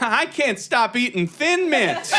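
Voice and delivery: high, drawn-out mock wail; frantic confession. Comic confesses a compulsion to the group, hammed-up frantic. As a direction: stretch it out high, hammed-up desperation.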